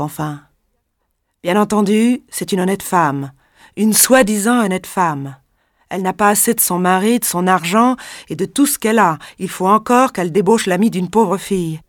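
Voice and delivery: accusation criée, plus aiguë; voix dure. Acted. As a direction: insiste avec mépris sur soi-disant. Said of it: "d'une voix dure et sans retenue". (la femme accable Irène, dure et méprisante)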